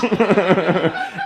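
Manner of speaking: high mocking cackle, put on; imitated dad's laugh. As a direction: mimic a dad laughing at his kid. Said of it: "then he did one of those".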